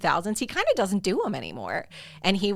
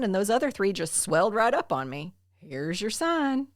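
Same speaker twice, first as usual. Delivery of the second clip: put-on Southern accent; 2 semitones higher than usual. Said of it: "hearing you do a Southern accent".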